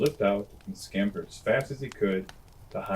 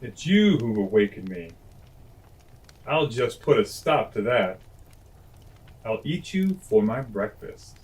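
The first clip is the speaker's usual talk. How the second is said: louder, threatening lion voice; angry lion; 3 dB louder than usual. Acted. Lion threatens to eat the mouse, louder. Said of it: "he roared".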